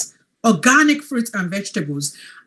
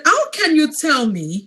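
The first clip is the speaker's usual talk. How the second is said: higher-pitched doubtful challenge; sceptical questioning; 5 semitones higher than usual. Retold or imitated. Coach recalls doubting the capsules, sceptical questioning. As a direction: question it in disbelief. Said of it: "I used to question that".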